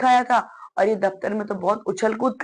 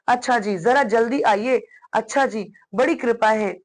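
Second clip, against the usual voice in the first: father on the phone; 3 semitones higher than usual. Acted. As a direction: play one side of a call to the doctor. (फ़ोन पर doctor से बात करते पिता का हल्का अभिनय)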